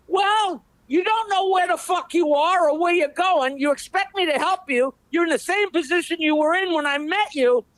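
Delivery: high, indignant comeback; man on the ground scolds the balloonist; exasperated retort. Acted. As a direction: throw the blame back at him. Joke punchline rant.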